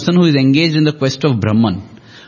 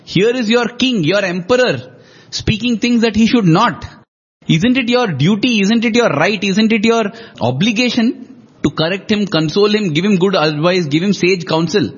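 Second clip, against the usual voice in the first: pleading; 3 semitones higher than usual. Retold or imitated. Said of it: "he actually pleads with them".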